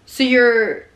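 slow, halting mock realization; dawning realization. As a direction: act out slowly grasping it, with long pauses. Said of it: "realize they're talking to a frickin' nutball".

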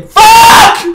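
loud, slow shouted swear; annoyed slow shout; frustrated curse. Real, not acted. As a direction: let the swear burst out. Frustration at mistake.

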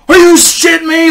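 high, loud, thrilled outburst; overjoyed disbelief. Retold or imitated. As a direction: burst out happily, imitating someone who can't believe his luck. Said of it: "this guy was so happy".

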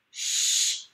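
a quick sharp shh; shushing. Acted. Lucille shushes Junie B while doing her letters, a quick shh. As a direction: hush her up.

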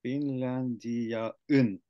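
Finlandiaun stretched out, syllable by syllable; very slow repeat. Shown as a demonstration. Learner practises the word very slowly. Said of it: "it's written here like that".

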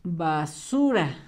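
soft slow dictation. Shown as a demonstration. Teacher softly dictating to pupils while they write, slowly.

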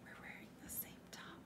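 soft unvoiced whisper. Real, not acted. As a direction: whisper it aside. Aside spoken unvoiced.

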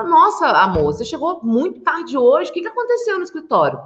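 acted surprised husband, pitch climbing; quizzing a partner, ending high and quick; husband questioning wife. Husband asks wife why she is late, acted surprise. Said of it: "chega pra sua esposa e pergunta pra ela".

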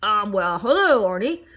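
hesitant, mildly stammered greeting; stammering. A narrator's reading. Man greets a talking donut, mildly stammering. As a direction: falter a little before greeting him. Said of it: "Mister Bing stammered".

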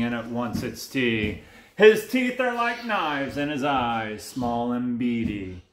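dramatic storyteller, leaning on key words; lilting bedtime-thriller narration; picture-book narration. A narrator's reading. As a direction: read a menacing rhyme to a small child. Reads picture book to child.

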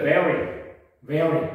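teacher says vary crisply, v in vary bitten; model pronunciation. Shown as a demonstration. Teacher models vary for students to repeat, crisp and clear. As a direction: say vary with a clear v and stressed first syllable. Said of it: "그럼 때려서".

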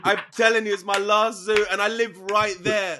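high, loud, insistent plea; begging. Retold or imitated. Caught smoker arguing for his last zoot to the officer, begging. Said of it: "And I started begging him".

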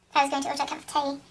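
amateur attempt at an English accent; lightly put-on British accent, not very good. Shown as a demonstration. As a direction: order tea in a tentative British accent. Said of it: "I love the British and English accent".

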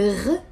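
"gh" rasped at the back of the throat; throaty gh. Shown as a demonstration. Teacher contrasting two Arabic letters, throaty "gh". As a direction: isolate "gh" like a gargle or French R. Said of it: "is here in your throat".

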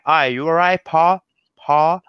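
put-on light Manchester accent with a sleepy mouth; Mancunian accent. Speaker imitating Manchester locals' greeting, mild Manchester accent. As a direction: mumble it like a Manchester local, lips barely moving. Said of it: "los ingleses hablaban con la boca como dormida".

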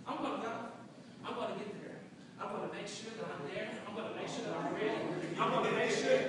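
steel yourself under your breath; quiet self-encouragement. Acted. Job seeker psyching herself up to go, quiet self-encouragement.

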